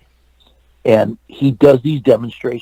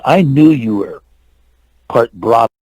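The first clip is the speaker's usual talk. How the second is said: imitated pronouncement. Star tells the actor he guessed his ancestry, imitated pronouncement. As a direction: imitate his knowing declaration, with a pause. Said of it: "He tells me like that".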